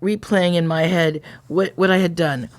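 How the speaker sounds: measured first-person story reading; story narration. A narrator's reading. Recalling the guilty evening after the encounter, in a measured narrating voice. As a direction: read it out as a confession from a story.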